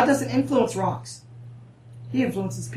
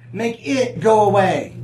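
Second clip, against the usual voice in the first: mock begging; 5 dB louder, slower than usual. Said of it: "you see how begging you get".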